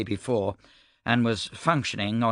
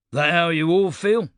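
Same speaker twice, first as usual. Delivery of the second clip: demanding; 6 semitones higher, 5 dB louder than usual. A narrator's reading. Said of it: "Stike demanded".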